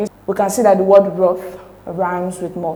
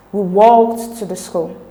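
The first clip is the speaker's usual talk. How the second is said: "walked" drawn out and louder; emphatic stress on WALKED; 4 dB louder, slower than usual. Shown as a demonstration. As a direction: punch and stretch "walked". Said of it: "word in capital letters has the emphatic stress".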